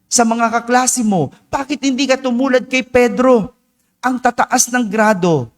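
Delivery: a lightly acted angry dad demanding answers; scolding father. Father comparing his son to Pedro, mildly hammed-up scolding.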